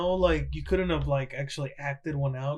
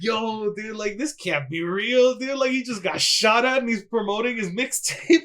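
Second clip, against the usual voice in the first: amused disbelief; 5 semitones higher, 4 dB louder than usual. Retold or imitated. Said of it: "And I was like".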